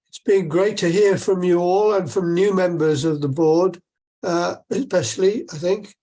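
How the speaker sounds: hoarse, croaky throat. Real, not acted. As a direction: speak through a croaky voice. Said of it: "Pardon my croaky voice".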